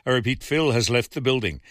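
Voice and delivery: a playful hint of a Las Vegas showman accent. Host reading a listener's joke in a light Las Vegas accent. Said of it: "in my best Las Vegas accent".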